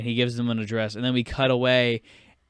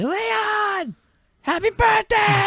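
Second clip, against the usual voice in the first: very high falsetto call; mock birthday cheer; slower than usual. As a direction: sing out a greeting in squeaky falsetto. Acting out Sonny greeting Leon.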